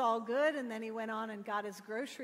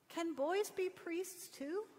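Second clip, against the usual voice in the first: earnestly; 6 semitones higher, slower than usual. A narrator's reading. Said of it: "very earnestly".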